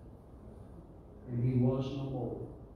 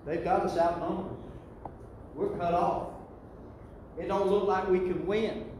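pleading prayer; 3 semitones higher than usual. Retold or imitated. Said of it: "And he said".

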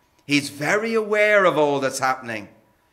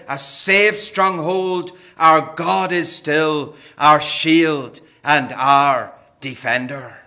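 hymn line; 2 semitones lower, slower than usual. Retold or imitated. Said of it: "a hymn written by Martin Luther".

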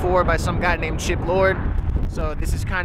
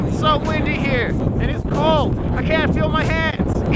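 shouting over wind; 9 semitones higher, 4 dB louder than usual. Real, not acted. Shouting over wind, freezing cold.

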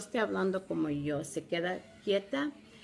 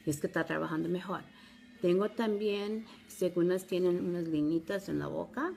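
Spanish with an American accent. Real, not acted. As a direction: speak Spanish like an American learner. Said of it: "Disculpen mi español".

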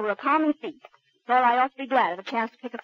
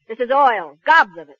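excited outburst; 9 dB louder than usual. Acted. Kay bursting out with news.

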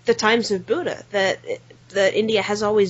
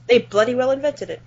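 John Cleese. Retold or imitated. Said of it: "To quote John Cleese in Fawlty Towers".

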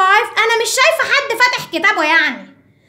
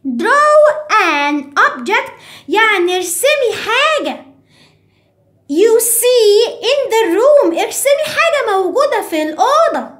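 mock scolding mom. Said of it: "راحت مامي قعدت تزعق وقالت لي".

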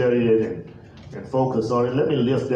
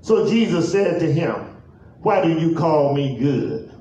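measured, deliberate pulpit reading; solemn, stretched-out Bible reading; scripture reading. Real, not acted. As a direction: read the verse out with long pauses between phrases. Reads scripture aloud.

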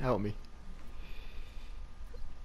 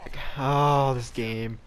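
exasperated whisper; 3 semitones higher, 5 dB louder, much slower than usual. Real, not acted.

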